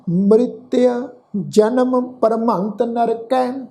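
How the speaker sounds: slow, drawn-out sacred verse; measured Gurbani recitation; scripture recitation. Shown as a demonstration. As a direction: recite slowly, stretching each word. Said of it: "ਇਹ ਸ਼ਬਦ ਦਾ ਪਾਠ ਹੈ ਜੀ".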